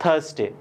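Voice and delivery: थर्सडे as "thus-day", no r; silent r. Shown as a demonstration. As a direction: model थर्सडे with the r left silent. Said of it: "आर हमारा यहाँ पे क्या रहता है? Silent रहता है।".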